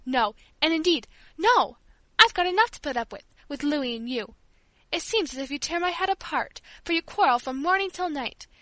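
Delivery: loud, rising fury; furious invalid shouting down; angry outburst. Acted.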